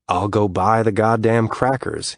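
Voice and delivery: slow annoyed huff over the crackers. Acted. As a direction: huff it out slowly, fed up. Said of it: "he huffs".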